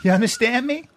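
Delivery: laughing through the trash talk; a laughing, slow taunt at the would-be fighter; laughing threat. Real, not acted. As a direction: boast while cracking up.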